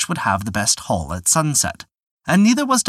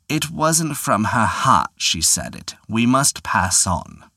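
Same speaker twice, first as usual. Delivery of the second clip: put-on old prospector; slower than usual. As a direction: drawl it out slowly like a wily old man. The Devil declines the prize.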